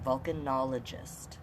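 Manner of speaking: Volcanologist said slowly, syllable by syllable; careful word demo. Shown as a demonstration. Storytime host modelling a word for children, slow and clear. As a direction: spell out Volcanologist slowly for the kids. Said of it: "Say that word once".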